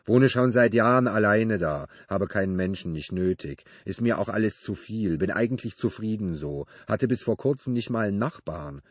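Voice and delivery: a touch loud and blunt, solitary man; lightly voiced loner neighbor. Neighbor telling Benedikt he lives alone, lightly blunt. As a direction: lightly play the awkward neighbor explaining himself.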